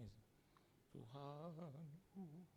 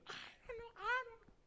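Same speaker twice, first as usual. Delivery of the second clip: high, bewildered little voice; confused newcomer; 6 dB louder than usual. Acted. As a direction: play a lost soul who knows nothing. Thief answers, rising frustration. (suara tinggi bingung orang baru)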